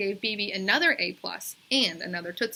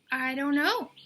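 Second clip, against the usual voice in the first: Bebe's voice; 7 semitones higher, 3 dB louder than usual. A narrator's reading. Bebe answers Calvin.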